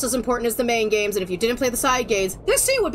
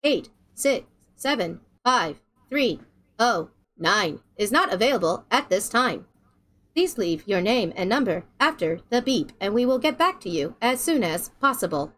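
lightly voiced automated message; customer service voice; 5 semitones lower than usual. Shown as a demonstration. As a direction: read it like a recorded phone message. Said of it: "my attempt at the customer service voice".

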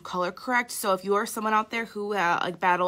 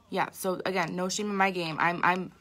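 sleepy voice. Real, not acted. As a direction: talk like you just woke up. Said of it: "I even have sleepy voice".

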